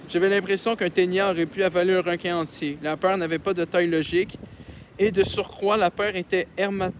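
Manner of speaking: measured read-aloud voice; story narration. Acted. Reads a novel aloud.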